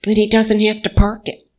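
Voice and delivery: put-on high, bright little-girl cheer; joyful child. Nine-year-old cheering that Grandpa is free, high childlike glee.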